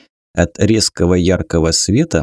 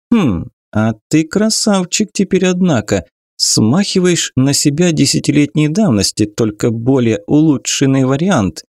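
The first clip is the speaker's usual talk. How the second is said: teasing; 5 semitones higher than usual. Acted. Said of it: "решила подколоть друга".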